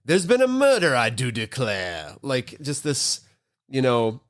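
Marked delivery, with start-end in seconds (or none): 0.0-2.1 the host. Acted. Host imitating a murder mystery party, stereotypical Southern accent. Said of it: "over the top stereotypical Southern accent".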